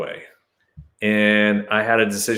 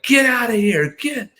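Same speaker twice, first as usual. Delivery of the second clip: much higher, commanding dismissal; shooing them off. Retold or imitated. Man ordering the searchers out, high and commanding. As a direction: chase them out with a sharp order. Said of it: "And I'm like".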